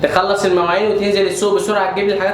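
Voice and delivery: loud, fast nagging; rapid bossy orders. Acted. Mother ordering her son around, loud and fast. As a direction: fire off the chores list.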